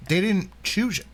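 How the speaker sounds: talking around an ice cube; ice in mouth. Real, not acted. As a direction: speak with ice in your mouth. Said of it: "sorry, I got ice in my mouth".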